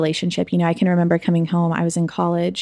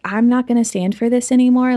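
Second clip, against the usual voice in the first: angry outburst; 6 semitones higher than usual. Retold or imitated. Sister confronting her brother, raised angry voice. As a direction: let the anger break through.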